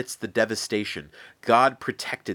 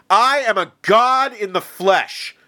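much higher and louder furious tirade; enraged shout; 8 semitones higher, 6 dB louder than usual. Acted. Enraged Pharaoh shouting threats of death at Moses. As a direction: roar it like a god-king defied. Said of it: "enraged, shouted back".

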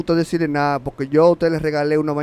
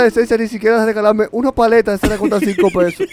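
slightly raised, indignant complaint; worked-up venting; 3 semitones higher than usual. Real, not acted. Host complaining of getting no birthday gift, worked-up venting. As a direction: air the grievance, all worked up. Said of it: "respira, respira".

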